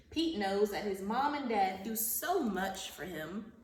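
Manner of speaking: animated picture-book narration; reading to children. Acted. Teacher reading Pete the Cat to her class, storybook narration. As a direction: read the story aloud to young pupils, lively at the start.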